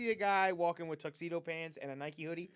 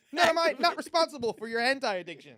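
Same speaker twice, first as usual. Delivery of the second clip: card game announcer; 8 semitones higher, 9 dB louder than usual. Pretend. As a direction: announce it like a duel.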